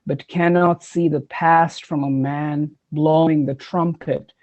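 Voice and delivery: slow, measured poetry recital; poem reading. Acted. Poet reading The Singing Bone, measured recital. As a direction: read it line by line, deliberately.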